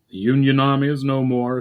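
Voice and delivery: confident. A narrator's reading. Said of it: "said Remthel with confidence".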